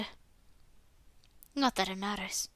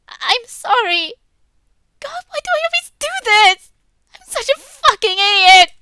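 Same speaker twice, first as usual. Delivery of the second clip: high, loud, breaking apology that builds to self-blame; crying girl voice; 10 semitones higher, 12 dB louder than usual. Acted. Natsuki crying on her knees, blaming herself in a high wail. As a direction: sob it out, angry at yourself. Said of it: "Slowly she starts crying".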